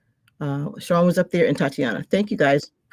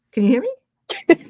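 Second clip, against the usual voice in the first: higher, louder, drawn-out call; calling out slowly; 11 semitones higher, 4 dB louder, much slower than usual. Real, not acted. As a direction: stretch it out to reach her. Repeats check, sister on mute.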